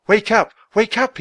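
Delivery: high, loud pleading call; urgent call. A narrator's reading. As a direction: rouse her, voice rising in worry. Shaking his unconscious sister.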